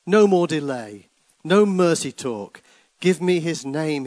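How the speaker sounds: loud, high, furious command; angry cry. Acted. King with drawn sword demanding the name, shouting. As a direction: roar it out, no patience left. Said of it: "he cried".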